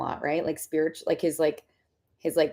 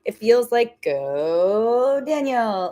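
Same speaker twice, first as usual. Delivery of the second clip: lightly voiced peppy cheerleader, higher; cheerleader energy; 5 semitones higher, slower than usual. Spirits cheering Daniel on, mild cheerleader voice. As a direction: cheer him on with bright, higher pep. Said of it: "spirits come forward with cheerleader energy".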